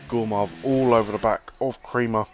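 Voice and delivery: talking through hiccups; hiccuping between words; suppressing hiccups. Real, not acted. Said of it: "Oh, excuse me, hiccups".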